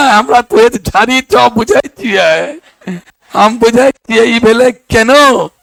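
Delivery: retold pupil slowly digging in; stubborn insistence. Pupil refuses teacher's correction, stubborn insistence. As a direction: draw out the words in stubborn protest.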